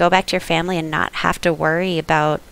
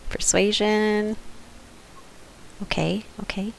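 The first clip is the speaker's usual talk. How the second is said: whispered aside; whispering; 3 semitones higher, 10 dB quieter than usual. Real, not acted. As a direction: whisper it to yourself. Quiet aside at table.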